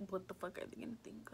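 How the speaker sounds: whispered dread, rising at the end; hushed, anxious question; worrying what the family will think; worried whisper. Retold or imitated. Worried inner thought.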